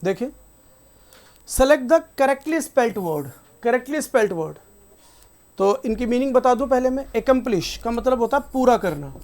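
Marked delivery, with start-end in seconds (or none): 1.5-4.6 each word of the question spelled out slowly; slow read-out. Shown as a demonstration. Teacher reading the next question slowly to the class. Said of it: "reading the question aloud".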